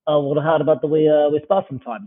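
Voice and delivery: a light Russian accent put on for the gym guy; lightly voiced Russian challenger, half-played. Retelling the Russian guy's offer to spar, in a light Russian accent. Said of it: "By the way, this accent is uncommonly good".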